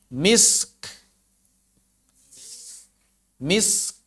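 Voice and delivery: misk ending in quiet breathy k; whisper-light k on misk; soft repeated demo. Shown as a demonstration. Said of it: "demo repeated". (contoh misk pelan)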